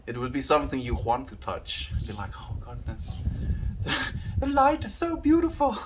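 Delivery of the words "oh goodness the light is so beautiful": tiny high-pitched voice of wonder; mock awe. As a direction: pretend to be dazzled, voice floating high. Acts out awe at imagined monster.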